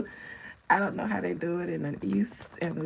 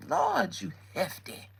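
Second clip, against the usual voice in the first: mock old lady; slower than usual. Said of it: "I'ma let y'all young girls have it".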